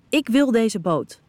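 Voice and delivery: grind it out slowly, jaw tight; growled. A narrator's reading. Mila growls her demand at Finn, slow and firm. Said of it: "grom ik".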